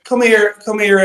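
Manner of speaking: put-on coaxing call to a child; father beckoning son.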